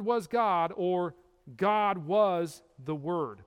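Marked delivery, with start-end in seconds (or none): 1.6-3.4 slow, God put first and weighted; God was the Word, weighty and slow; stress on God. Shown as a demonstration. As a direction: lean on God, said slowly. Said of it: "There's an emphasis on the deity".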